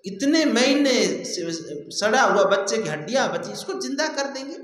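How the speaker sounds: mildly astonished retold question, rising at the end; startled disbelief. Startled onlookers doubting the dead child can be revived, mildly astonished. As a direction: voice the crowd's disbelief, lifting into a question. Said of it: "सब लोग चौंक गए".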